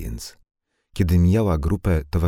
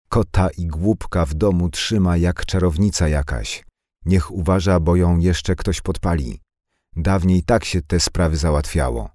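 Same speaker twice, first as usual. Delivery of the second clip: a mild, lightly raised mock shout; 3 semitones higher, 3 dB louder than usual. Anka stirring up the women from the shop steps, mildly raised shout. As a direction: heat up the crowd, just a little louder. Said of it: "krzycząc".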